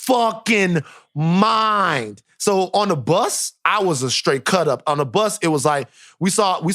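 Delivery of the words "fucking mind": laughing. Real, not acted. Bus erupts, he laughs.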